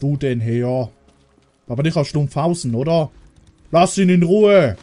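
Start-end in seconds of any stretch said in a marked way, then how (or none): 3.7-4.8 sharp raised order to back off; shouting at a zombie to leave the survivor alone; loud command. Real, not acted. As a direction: call out to protect him. Shouting at attacker.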